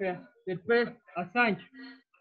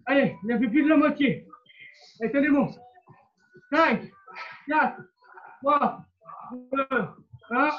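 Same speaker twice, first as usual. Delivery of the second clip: barking gym coach; 2 semitones higher than usual. Real, not acted. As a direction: push them through the last reps. Coach urging class through countdown. (coach qui crie les encouragements)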